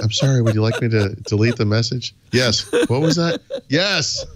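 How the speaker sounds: acting out a voice assistant. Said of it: "like, escalate it".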